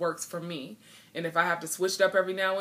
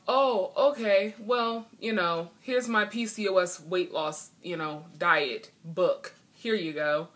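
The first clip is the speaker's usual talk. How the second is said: mock pushy seller. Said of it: "instead of me pushing off".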